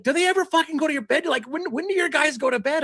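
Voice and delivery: high, fed-up complaint; mock irritated wife voice; exasperated wife. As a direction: imitate the annoyed wife at one a.m. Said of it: "my wife's like".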